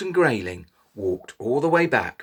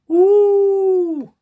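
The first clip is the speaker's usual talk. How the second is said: long high wolf howl; 8 dB louder than usual. Shown as a demonstration. Storyteller leads children in a loud high wolf howl. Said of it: "howl like a wolf".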